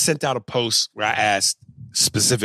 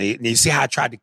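ordinary delivery

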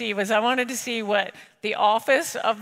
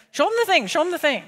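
eager insistence; 6 semitones higher, faster than usual. Retold or imitated. Banker urging the rep to redo the demo, eager. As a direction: push them to show it again.

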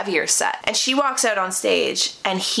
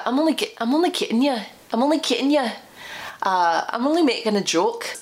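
higher, badly faked Scottish brogue; attempted Scottish accent; 4 semitones higher, faster than usual. Woman retries date's joking excuse, bad Scottish accent. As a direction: try Scottish and slip towards Irish. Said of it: "that was Irish. What was that?".

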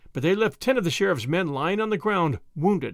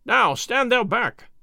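slow, higher-pitched commanding cry; cried order; 6 semitones higher, 4 dB louder, slower than usual. A narrator's reading. Man-at-arms to the one shoving him, cried order. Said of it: "cried one of the men-at-arms".

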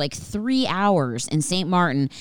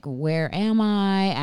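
drawn-out, higher-pitched mock bewilderment; mock freak-out; 4 semitones higher, much slower than usual. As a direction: stretch it out like a dazed traveler panicking. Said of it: "I start to freak out".

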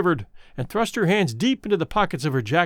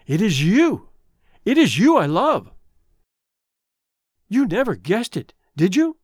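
exultant; 3 semitones higher than usual. Acted. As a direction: pour out joyful love. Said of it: "he said exultantly".

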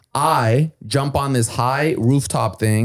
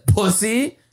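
sneering insult; 9 semitones higher than usual. Retold or imitated. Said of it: "this time he says".

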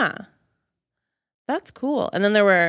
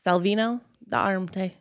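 lightly attempted Italian accent. Reading an inventor's name to co-hosts in a light Italian accent. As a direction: have a mild go at an Italian accent. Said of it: "That's my Italian accent".

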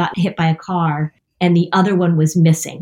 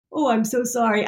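imitated condolence, softer and a bit higher; mild mock sympathy; 4 semitones higher, 5 dB quieter than usual. Imagining the hotel clerk's condolence, softly voiced mock sympathy. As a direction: lightly act out awkward sympathy.

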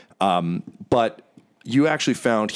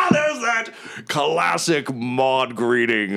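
hearty hero; 3 semitones higher, slower than usual. Acted. The speaker's voice continues.

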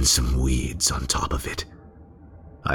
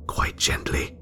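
cold whisper. Acted. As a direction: breathe it out, savouring every cut. Narrating cutting the bird's throat.

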